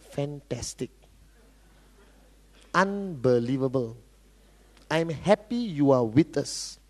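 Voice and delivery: low, soft, measured praise; understated, deliberately restrained approval; polite encouragement. Acted. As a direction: keep the compliments soft and unhurried. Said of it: "What should I say?".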